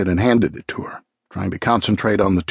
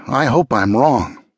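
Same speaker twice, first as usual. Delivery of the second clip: slow, subdued foreboding; worried; 2 semitones higher than usual. Acted. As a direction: say it slowly, dreading the answer. Grim worry, first of two takes.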